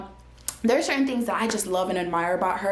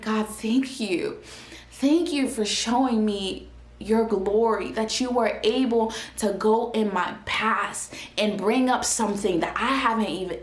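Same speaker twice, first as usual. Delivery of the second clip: grateful prayer. Retold or imitated. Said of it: "And I was like".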